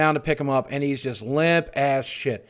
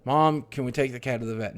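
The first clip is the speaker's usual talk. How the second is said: hushed; 3 semitones lower, 8 dB quieter than usual. Retold or imitated. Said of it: "And I'm like".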